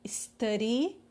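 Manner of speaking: "Study" with a tapped R for the D; som de R. Shown as a demonstration. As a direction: model "Study" as "is-TÂ-ri". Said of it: "com som de R". ("Study" com o D virando R)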